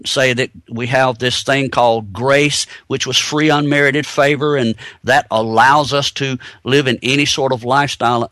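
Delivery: dry sarcastic mockery. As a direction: say it with a sarcastic edge. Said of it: "I'm being sarcastic here".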